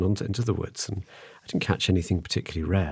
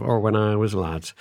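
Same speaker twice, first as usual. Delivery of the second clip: a quick, lightly put-on northern English accent, like a nostalgic old man; mock northern English "when I was a lad"; 2 semitones higher than usual. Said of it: "I did that in a northern accent".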